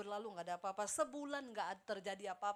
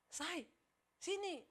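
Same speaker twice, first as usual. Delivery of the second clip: mild mock call-out, pitched up; retold yell; 5 semitones higher, much slower than usual. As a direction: call a spouse over without real volume. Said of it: "tiba-tiba teriak".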